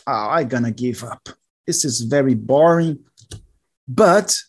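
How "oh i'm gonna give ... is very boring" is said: giving up. Retold or imitated. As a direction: sound fed up and bored. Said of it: "you say".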